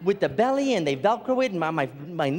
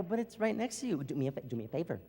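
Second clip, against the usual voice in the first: mild mock plea; 4 semitones lower, 9 dB quieter than usual. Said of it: "I go".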